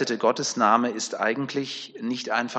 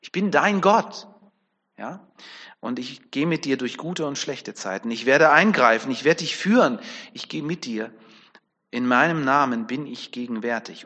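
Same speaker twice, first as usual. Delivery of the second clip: tender assurance. Retold or imitated. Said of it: "das dürfen wir so für uns mitnehmen".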